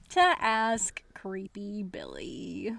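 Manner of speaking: slow spooky whisper. Pretend. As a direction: draw it out like a ghost story. Spooky mock-dramatic narration.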